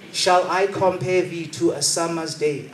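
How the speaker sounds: "Shall I compare thee to a summer's day?" drawn out slowly, grandly; slow theatrical Shakespeare line; poetic recitation. Shown as a demonstration. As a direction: recite it slowly like a classical actor. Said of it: "I don't speak like that".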